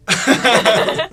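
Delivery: monster roar. Shown as a demonstration. Snarl and roar demo.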